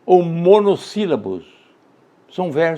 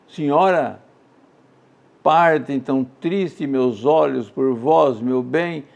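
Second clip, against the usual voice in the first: poem recitation; slower than usual. Acted. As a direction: grieve gently through each line. Recites old lament poem.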